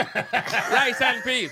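very slow, drawn-out mock Jamaican. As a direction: drag out Rice and Peas in a fake Jamaican accent. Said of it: "You sound like".

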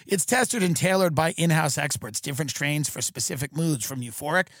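even sponsor-read voice. Acted. Host selling THC products to listeners, scripted ad read. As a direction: read it out as podcast ad copy.

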